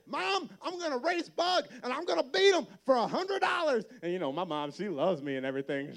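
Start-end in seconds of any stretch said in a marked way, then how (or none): 0.1-3.8 put-on kid voice. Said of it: "And I'm like".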